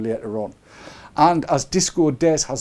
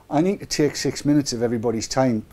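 normal talking voice

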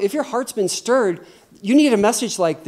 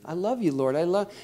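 soft, acted prayer to himself; private prayer; 6 dB quieter than usual. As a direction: pray softly in your seat. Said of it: "I can sit in my seat".

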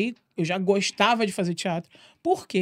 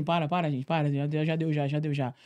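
weary plea; 5 semitones lower, 6 dB quieter than usual. Retold or imitated. Begging everyone to stop.

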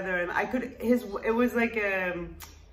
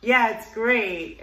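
flat sarcastic yeah; 6 dB louder, much slower than usual. Retold or imitated. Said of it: "I said either".

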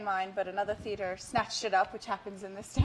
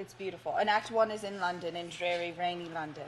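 put-on London accent. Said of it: "we gotta do the whole interview in that".

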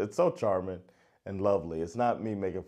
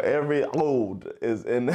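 put-on throaty Skåne accent; 2 semitones higher, 4 dB louder than usual. Joking about the singer's accent, throaty Skåne imitation. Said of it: "everything is in the throat".

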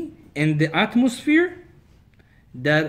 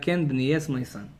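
calm rabbi; 4 semitones lower, 5 dB quieter than usual. Retold or imitated. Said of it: "Hillel is very calm".

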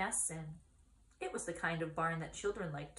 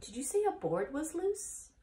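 put-on 1 young pig; 9 semitones higher than usual. Wilbur voiced, asking goose.

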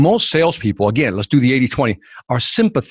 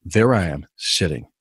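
storytelling texture demo; 8 semitones lower, 4 dB quieter than usual. Shown as a demonstration. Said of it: "like this, for example".

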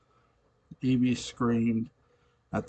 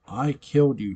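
loud high scream of disbelief; 5 semitones higher, 6 dB louder than usual. A narrator's reading. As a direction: scream it at the husband she killed. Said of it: "she screamed".

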